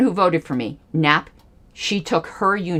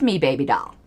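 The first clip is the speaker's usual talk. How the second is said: condescending; 4 semitones lower, faster than usual. Real, not acted. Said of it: "That was condescending".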